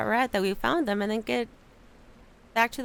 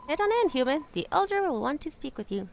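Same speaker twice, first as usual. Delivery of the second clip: rat guard; 5 semitones higher than usual. Acted. Rat guard ushering the human inside, lightly voiced. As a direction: wave the human on in.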